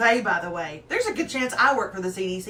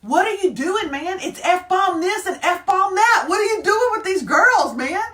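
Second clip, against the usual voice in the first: retold DJ; 7 semitones higher, 7 dB louder than usual. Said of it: "the D J leans down and he goes".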